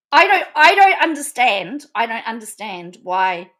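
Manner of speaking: laughing through the words, disbelieving. Real, not acted. Wondering aloud why he wouldn't want her, laughing. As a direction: giggle it out, amused and baffled.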